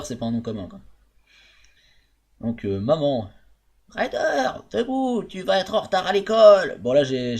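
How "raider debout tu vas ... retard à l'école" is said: high put-on mother's voice; imitating mum. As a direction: call him out of bed like mum. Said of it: "j'ai essayé d'imiter ma mère". (voix de mère imitée, aiguë)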